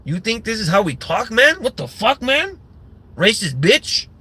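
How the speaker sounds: high, indignant mock gangster, pitch jumping up on each "man"; offended gangster. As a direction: scoff at the racist translation as the prisoner. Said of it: "he's gonna be like".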